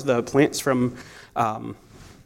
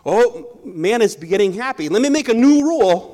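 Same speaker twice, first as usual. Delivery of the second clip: higher and louder sarcastic put-on; mocking voice; 5 semitones higher, 3 dB louder than usual. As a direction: sneer it like a fickle rule-maker. Mocking a rule-changing God.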